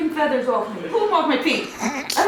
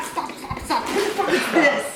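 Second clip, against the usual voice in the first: laughing protest; 10 semitones higher, slower than usual. Real, not acted. Mom woken, laughing protest.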